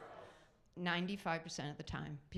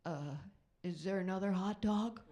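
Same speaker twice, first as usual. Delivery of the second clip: put-on simple boy. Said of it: "You give a boy a hot dog".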